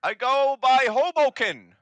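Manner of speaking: high, loud, brash goblin voice; loud hobgoblin. Acted. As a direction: bark it out like a pushy hobgoblin.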